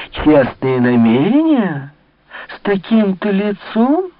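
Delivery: slow, then high and scornful outrage; indignant. Acted. The old lady scoffs at Malicorne's honest intentions, slowly, then high. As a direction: scoff at the very idea, rising in indignation. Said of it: "возмутилась".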